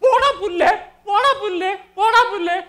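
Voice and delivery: rude retort. Retold or imitated. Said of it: "എന്ന് മൂന്ന് പ്രാവശ്യം പറഞ്ഞ".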